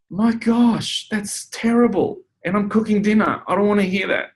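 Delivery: high-pitched, appalled protest; re-enacted distressed objection; acted dismay. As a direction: recoil from awful news, voice way up. Acted dismay at hearing grim news.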